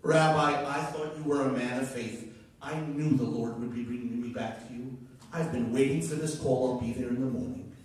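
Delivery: imitated Jamaican nurse; lightly imitated Jamaican accent; thick Jamaican accent. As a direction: answer with faith in a Jamaican accent. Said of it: "in a very thick Jamaican accent".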